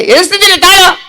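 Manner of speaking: high puppet voice, put out; impatient puppet. Acted. Puppet busy counting the crowd, impatient puppet voice. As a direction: fend off the host as a puppet.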